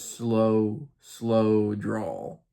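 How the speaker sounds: imitated slow drawl. Elder F proud of his speech, mock slow drawl. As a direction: draw out each "slow" with a pause. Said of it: "paused after each slow".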